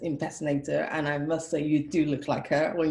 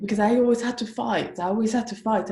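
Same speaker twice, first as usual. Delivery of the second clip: emphatic; 6 semitones higher, 7 dB louder than usual. Real, not acted. Host stresses life of struggle.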